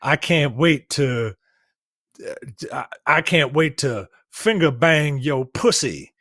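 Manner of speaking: put-on overdone sweet talk to a girlfriend, slow and halting; fake straight man. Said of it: "what a gay man thinks a straight man, uh, i-, is like".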